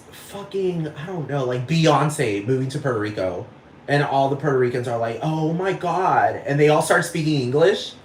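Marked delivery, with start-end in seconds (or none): 5.2-6.4 mock Valley Girl. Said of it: "the Valley Girl accent just takes over".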